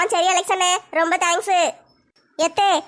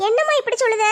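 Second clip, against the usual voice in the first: put-on lightly raised girl's voice, என்னம்மா falling; the daughter answering her mother tenderly; lightly voiced teenage daughter; young daughter; 5 semitones higher than usual. Daughter's version of line 6.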